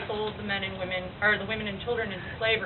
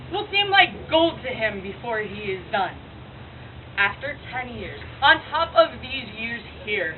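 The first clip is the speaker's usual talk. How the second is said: lightly voiced tragic prophetess, measured phrases; prophesying Cassandra. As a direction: foretell his troubles in theatrical verse delivery. Monologue that is done by Cassandra.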